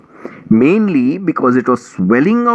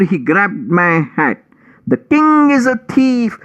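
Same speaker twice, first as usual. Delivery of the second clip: whiny mouse; 2 semitones higher than usual. Acted. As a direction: play the weepy victim, whining. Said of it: "wailing and weeping".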